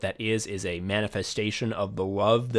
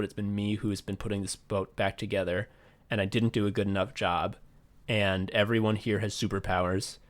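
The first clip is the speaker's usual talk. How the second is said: subdued, lower voice for a hurt crewmate; dejected retelling; 3 semitones lower than usual. Retold or imitated. Voices Usopp's dejected plea.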